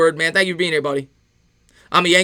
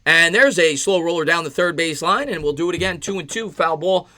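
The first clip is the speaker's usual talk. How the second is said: ordinary talk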